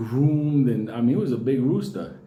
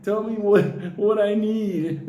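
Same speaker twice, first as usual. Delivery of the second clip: pleading shaman; 5 semitones higher, slower than usual. Retold or imitated. Shaman begging the rooster for answers, mild mock plea. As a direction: ask the rooster earnestly. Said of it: "he starts going, in Spanish".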